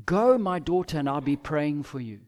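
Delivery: a gentle send-off with a blessing; warmer, caring goodbye; encouraging farewell. Pretend. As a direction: bless her as she goes. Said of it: "at the very least".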